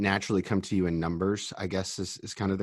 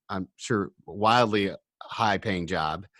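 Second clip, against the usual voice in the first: slow, gently sarcastic delivery; dry sarcasm; slower than usual. Real, not acted. Interviewer teasing about a teenage go-kart job, dry sarcasm. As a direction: draw it out with light sarcasm. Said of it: "you know, the sarcasm".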